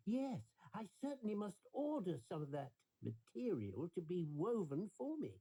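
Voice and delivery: the emperor, pleased with himself, plotting; eager emperor. Acted.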